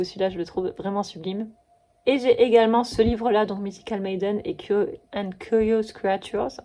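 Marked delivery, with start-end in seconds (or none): 3.6-6.6 English title read with a French accent. Real, not acted. Vlogger reading an English title in French-accented English. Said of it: "On adore mon accent anglais".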